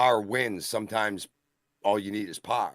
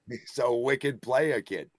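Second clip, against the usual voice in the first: put-on slow, higher-pitched Boston accent; 5 semitones higher, slower than usual. Joining in the Two Dame joke, drawn-out Boston accent. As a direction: draw it out like a Boston local. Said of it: "Boston accent style".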